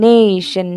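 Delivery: "nation" with its first syllable "na" punched; stress on "na". Shown as a demonstration. Teacher isolating the stressed part, emphatic "nation". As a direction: lean hard on the "na" of "nation". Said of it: "ന എന്നുള്ള ആ ഭാഗത്തിനാണ്".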